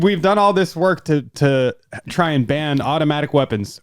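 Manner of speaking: high, mocking imitation of her; a sarcastic high-pitched take on her quote. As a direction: parrot her words in a high mock voice. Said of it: "she said".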